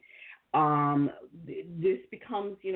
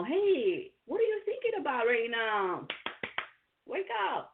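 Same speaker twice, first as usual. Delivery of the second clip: bright, higher nudge to snap out of it; friendly wake-up call; 5 semitones higher than usual. Retold or imitated. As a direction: call out to someone lightly, rising on wake up. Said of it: "teach each other, you know".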